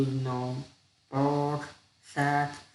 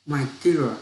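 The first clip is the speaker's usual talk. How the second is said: wife voice; 5 dB louder than usual. Acted. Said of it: "the wife said".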